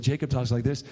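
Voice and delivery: lightly voiced younger brother; a hint of a contrasting brother's voice; Jacob's voice. Shown as a demonstration. Preacher demonstrating how Jacob talks, lightly put-on voice. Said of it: "he, like, changed his voice a little bit".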